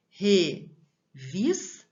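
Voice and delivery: REVISTA split slowly, RE, VIS, TA; teacherly, spaced-out syllables of Revista; syllable-by-syllable stress demo. Shown as a demonstration. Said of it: "pronunciada com mais intensidade".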